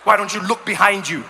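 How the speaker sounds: mock yell. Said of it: "One guy screamed at me".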